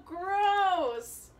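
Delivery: chewing while talking; talking between bites; mouth full of candy. Real, not acted. Seen 0: Both hold candy, boy chews; unclear which one speaks.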